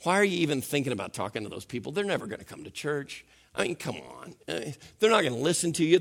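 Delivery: lightly voiced tempter, low and fast; a hint of a sly whispering enemy, rushed; quick, low coaxing tempter; tempter's voice. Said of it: "he's whispering in our ears".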